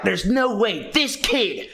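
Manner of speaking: slow, doubtful teacher voice; mocking teacher. Mocking the teacher who doubts the kid, slowly. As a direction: drag it out like a suspicious teacher. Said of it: "They didn't say it like that".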